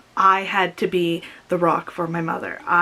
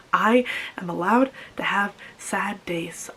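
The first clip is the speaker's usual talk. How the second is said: tearful, breathy whisper; words pushed out through real tears; crying. Real, not acted. Telling viewers she may grieve, through tears. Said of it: "I'm doing it right now".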